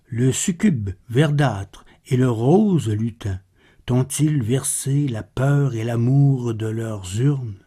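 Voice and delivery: measured, solemn poem reading with pauses between images; poetry recitation. Acted. Narrator reciting Baudelaire's poem to listeners, measured poetry recitation. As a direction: recite the verse with restraint, line by line.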